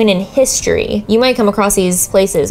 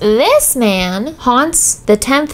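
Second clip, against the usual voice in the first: slow spooky telling; slower than usual. Acted.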